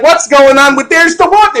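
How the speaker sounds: Chicago twang. Acted. Showing friends a drunk Chicago accent, hammed-up high twang. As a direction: put on a screechy Chicago twang. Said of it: "Like a Chicago twang".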